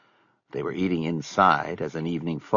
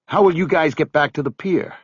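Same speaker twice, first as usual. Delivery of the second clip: higher, anxious question; desperate; 9 semitones higher, 5 dB louder than usual. Acted. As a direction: grasp for any reason to stay. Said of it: "a desperate question".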